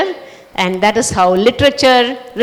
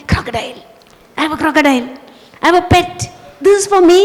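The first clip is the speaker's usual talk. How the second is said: happy; 5 semitones higher, much faster than usual. Acted. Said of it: "Then he is very happy".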